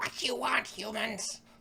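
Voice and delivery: very high, rough kobold voice with broken speech. Voicing a kobold behind a door who challenges the party: kobold speaking rough Common. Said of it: "kobold, speaking in rough common".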